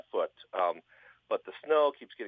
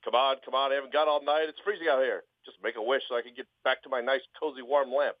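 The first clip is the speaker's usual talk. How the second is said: lightly impatient genie; 3 semitones higher than usual. Retold or imitated. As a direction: hurry him along, a bit irritated. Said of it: "genie's now getting very impatient".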